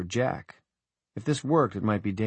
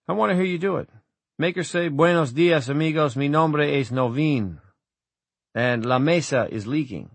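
higher-pitched, eager urging; lightly acted character request; lightly voiced Wireman; 5 semitones higher than usual. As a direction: coax him to perform. Acted Wireman dialogue, urging Jack.

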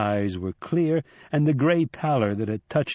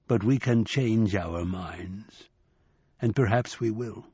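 slow ominous; 2 semitones lower, slower than usual. Acted. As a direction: let the threat settle. Buffalo man, ominous.

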